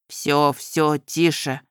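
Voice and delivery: put-on calm a crying girl; soothing groom. Groom calms her.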